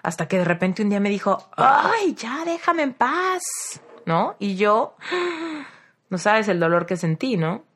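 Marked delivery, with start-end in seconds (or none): 1.6-3.4 high, slow, drawn-out exasperated sigh of a line; fed-up brush-off. Retold or imitated. Friend finally telling the pleading narrator to leave her alone, fed-up and drawn out. 5.0-5.6 a soft, high shocked gasp; hurt gasp. Retold or imitated. Narrator reacting to her friend's rejection with a soft hurt gasp.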